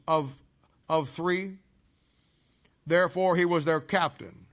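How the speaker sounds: slow, measured Bible reading; preacher reading the verse to the congregation, slow and measured; scripture reading. Acted. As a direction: read the verse slowly and deliberately. Reads the scripture passage aloud.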